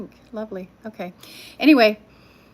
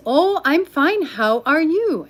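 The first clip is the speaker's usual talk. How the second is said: slow, higher mock Indian accent; imitating scammer; 7 semitones higher, 5 dB louder, slower than usual. Imitating the scam caller's reply, light Indian accent. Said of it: "He says".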